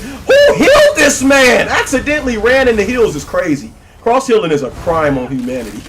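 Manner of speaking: high, loud cry of laughing outrage; outraged disbelief. Real, not acted. Player protesting the cross healing, outraged shouting. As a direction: yell in comic disbelief at the unfairness. Outraged at enemy being healed.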